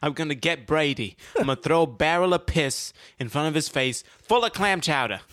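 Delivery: playing a vengeful Patriots fan; mock Boston fan.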